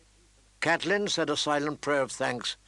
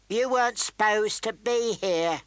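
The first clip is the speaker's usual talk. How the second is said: sour mutter; 7 semitones higher than usual. Acted. Intruder grumbling at the mother in the room. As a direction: grumble it, annoyed to be caught. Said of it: "he muttered sourly".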